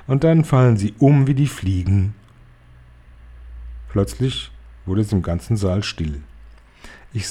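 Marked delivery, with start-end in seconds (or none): 0.1-2.1 jubilant. Acted. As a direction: blurt it out in wild delight. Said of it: "sie sprang auf und jubilierte".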